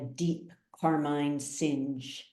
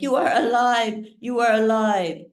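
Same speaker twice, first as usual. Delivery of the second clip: overjoyed; 6 semitones higher, 4 dB louder than usual. A narrator's reading. Mother sees lost son return.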